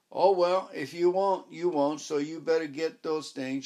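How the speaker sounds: sulky concession from a lightly voiced old woman; grudging old lady. Mrs Booby grudgingly gives in.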